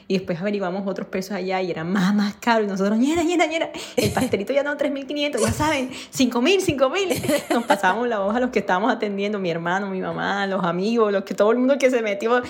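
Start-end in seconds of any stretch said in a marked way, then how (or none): 3.0-7.1 high, lively vendor call of prices; excited price calling. Retold or imitated. Siblings calling out prices at the stand, high and lively. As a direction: call out the new prices like a street seller. Hawking raised prices to each other.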